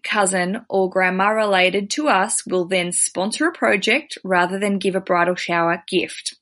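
reading a listener's letter aloud. Acted. Host reading a bride's letter to guest, read-aloud style.

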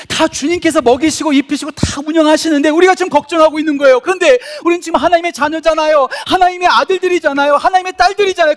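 loud, high rising sermon climax; fervent Korean preacher crescendo; preaching at full force. Acted.

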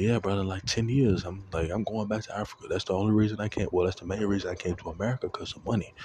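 African-accent impression, pitch a touch up; friend's African accent. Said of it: "let me stop doing the accent".

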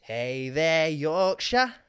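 cheery Yorkshire accent, slow on the last line; on request, doing a Yorkshire chicken in a Yorkshire accent. Shown as a demonstration. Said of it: "Give me a Yorkshire accent".

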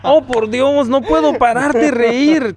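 hammed-up dubbed actor amused. Friend mocking how dubs react to jokes, theatrical voice. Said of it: "así no hablamos los latinos".

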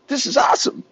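hammed-up excited ad girl; mocking ad woman. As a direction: gush it like a cheesy ad actress. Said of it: "she's all".

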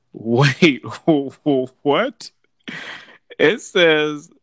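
sudden baffled double take; wait, what, in disbelief; surprised. Real, not acted. Reads a surprising survey detail.

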